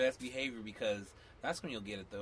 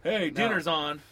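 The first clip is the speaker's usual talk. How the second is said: loud, slow, higher dinner call; acted holler to come and eat; 4 semitones higher, 8 dB louder, slower than usual. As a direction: call the kids in from outside. Contrasting a called summons with texts.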